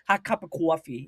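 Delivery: New York "cwawfee"; New York accent. Shown as a demonstration. Showing a British friend local talk, New York accent. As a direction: order coffee like a New Yorker. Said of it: "you never heard the people go".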